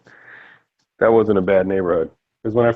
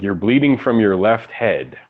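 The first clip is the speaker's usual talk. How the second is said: sarcastic; 3 semitones lower than usual. Retold or imitated. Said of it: "sense the sarcasm in that fucking idiot's voice".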